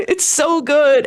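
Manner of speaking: laughing. Real, not acted. Laughs after touching scene.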